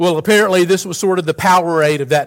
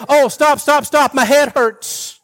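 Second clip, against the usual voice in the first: high, louder, slow whimpering complaint; mock whining; 9 semitones higher, 3 dB louder than usual. Preacher mocking a complaining Jesus, whiny plea. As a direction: whine it like a self-pitying sufferer. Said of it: "He wasn't saying".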